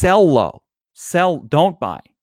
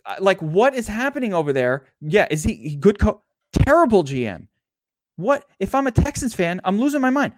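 mock rant; 3 semitones higher than usual. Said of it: "All right, rant off".

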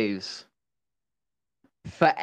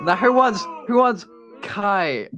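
hyped announcer; 4 semitones higher than usual. Pretend. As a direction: whip up the crowd for Kite. Mock election crowd vote.

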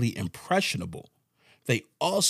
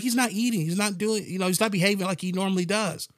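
worried pet owner; 9 semitones higher than usual. Retold or imitated. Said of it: "She's like".

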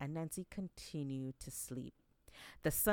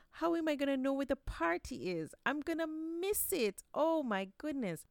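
higher, louder, desperate lament; panicked wail; 9 semitones higher, 3 dB louder than usual. Acted. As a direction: despair at missing the party. Anansi's thread snaps, panic.

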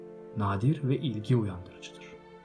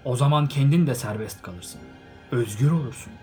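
stern; 4 semitones higher, 7 dB louder than usual. A narrator's reading. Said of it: "Sert bir edayla konuştu".

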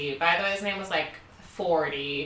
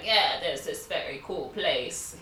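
slow, put-on British accent; attempted British accent; slower than usual. Hostel party person recommending a club, mock British accent. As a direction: lightly imitate a European in a British accent. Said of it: "He wasn't British".

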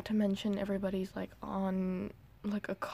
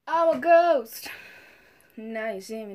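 spooky ghost; 7 dB louder than usual. Pretend. Playful spooky announcement.

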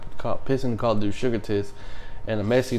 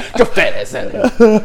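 high, loud, far from serious; laughing mock yell; 10 semitones higher, 7 dB louder than usual. Storyteller echoing the soldier's insult, laughing yell. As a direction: yell it through your laughter.

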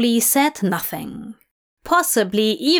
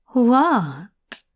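sweetly. A narrator's reading. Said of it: "Aziraphale asked sweetly".

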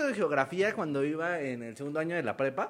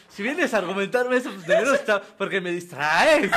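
louder, dragging mock protest; flustered teacher; 3 dB louder than usual. Cornered teacher answering the girl, mock-flustered loud protest. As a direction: lightly play a tongue-tied man making excuses. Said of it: "se empieza a trabar para responderles".

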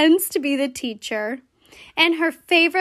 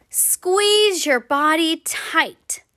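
whisper; slower than usual. Acted. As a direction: breathe it out unvoiced. Story action, whispered.

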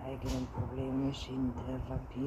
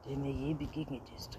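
angry outburst; 8 dB louder than usual. A narrator's reading. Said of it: "Wütend biss Anton die Lippen zusammen". (wütend und laut vorgeworfen)

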